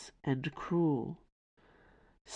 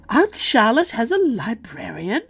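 high, loud astonishment; gasped; 5 semitones higher, 5 dB louder than usual. A narrator's reading. Bella hearing of her aunt's librarian, gasping. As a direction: gasp the question in disbelief. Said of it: "Bella gasped".

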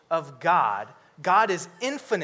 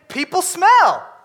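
higher, louder mock complaint; mock disgusted host; 10 semitones higher, 8 dB louder than usual. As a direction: act out the fussy homeowner. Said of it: "I have this saying".

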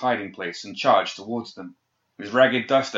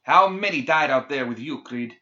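spitting anger; 5 semitones higher, 4 dB louder than usual. A narrator's reading. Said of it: "as he spat".

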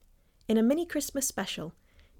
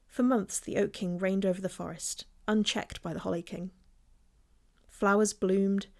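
grave ancient myth telling. A narrator's reading. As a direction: tell it like an old legend by firelight. Narrates the Oak and Holly myth.

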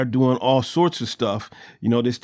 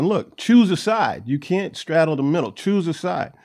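forceful urging; 4 semitones higher than usual. Retold or imitated. Preacher urging people to choose.

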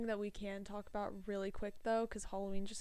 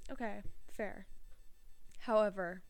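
posh oxford professor. Acted. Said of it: "Why am I speaking like an English professor".

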